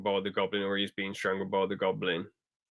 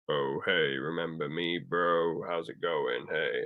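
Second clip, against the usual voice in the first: casual Sandman; 5 semitones lower, 5 dB quieter, slower than usual. Retold or imitated. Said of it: "Sandman was just sort of like".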